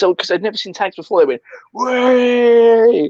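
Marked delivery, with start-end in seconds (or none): 1.7-3.1 high cry of amazement; excited shout. Retold or imitated. Onlookers cheering the tag round, a high excited shout. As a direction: yell it like the crowd just went bananas.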